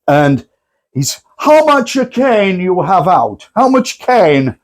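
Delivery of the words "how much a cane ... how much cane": "cane" said with the vowel of cane, for chain; slow, high "How much cane?" with a mock German accent. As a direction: imitate a German saying "cane" instead of chain.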